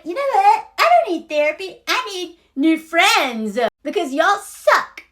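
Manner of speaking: mock Carrie. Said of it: "But Carrie's like".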